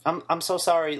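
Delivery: lightly voiced, emotionless "I'm so sorry"; mocking flat apology. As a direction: parody the actress reading it dead flat. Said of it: "You have no emotion in your voice".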